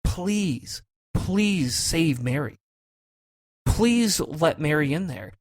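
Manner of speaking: drawn-out, slow pleading please; slow pleading prayer. Shown as a demonstration. Praying slowly over Mary for her salvation, pleading. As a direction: beg slowly for Mary's soul. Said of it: "the prayer kinda went a little bit like this".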